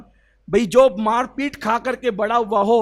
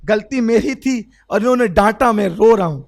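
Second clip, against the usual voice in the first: louder confession, voice pushed; loud tearful plea; 6 dB louder than usual. Acted. Abdullah answering the Prophet, loud and pleading. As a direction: own up to the fault with feeling.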